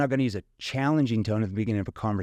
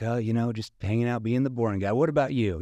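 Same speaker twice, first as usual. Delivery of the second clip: joking self-deprecating reply; light, grinning banter; playful small talk with a prospect. Shown as a demonstration. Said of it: "You know, playful tone".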